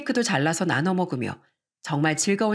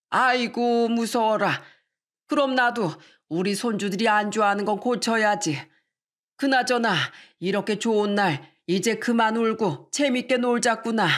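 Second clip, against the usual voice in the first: lightly voiced father, mock scared then jolly; a hint of a jovial grandpa; good-humoured grandfather; 3 semitones higher than usual. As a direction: play along as an easygoing elder.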